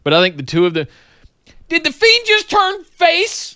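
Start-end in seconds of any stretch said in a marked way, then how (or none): 1.7-3.5 much higher, drawn-out incredulous questions; mock disbelief. Co-host questioning whether the Fiend turned face, mock disbelief. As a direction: pitch it way up in mock bewilderment.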